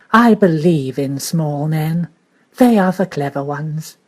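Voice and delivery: slow, emphatic exclamation; exclaiming. Acted. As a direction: declare it with conviction. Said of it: "she exclaimed".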